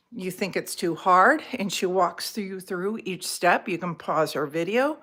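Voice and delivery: breathless, catching air between phrases; out of breath. Real, not acted. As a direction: still winded from the stairs. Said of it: "gosh, I'm still out of breath".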